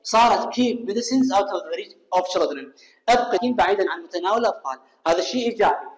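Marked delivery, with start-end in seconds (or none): 0.5-2.7 بطيء وواضح كأنه إملاء; اقرأ الجملة كلمة كلمة للطلاب; قراءة بطيئة. Shown as a demonstration. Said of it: "احذف always". (قراءة بطيئة جدًا بدون always)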